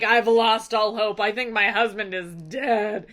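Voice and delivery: hammed-up hopeless lament, starting loud; exaggerated woe, easing off in volume; mock despair. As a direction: play a despairing wife theatrically. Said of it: "she has lost hope of her husband".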